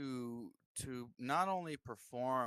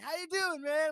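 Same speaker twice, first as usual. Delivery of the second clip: higher, louder mock rocker hello; mock rock-star greeting; 13 semitones higher, 8 dB louder than usual. A singer reaching over to say hi, higher and louder. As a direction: greet like a cool rock star.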